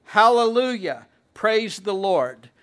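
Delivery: loud, high joyful cry of praise; heaven's shout. Retold or imitated. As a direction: shout it as the crowd in heaven would. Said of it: "we hear heaven shouting".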